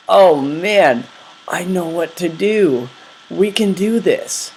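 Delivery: eager, rising, hopeful; excited inner voice. Retold or imitated. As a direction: cheer yourself on. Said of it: "really great thoughts".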